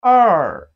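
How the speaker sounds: "er" loud, dropping steeply in pitch; falling tone. Shown as a demonstration. Teacher recaps the count for learners, loud falling "er". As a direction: hit "er" hard and let it fall. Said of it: "It has the falling tone".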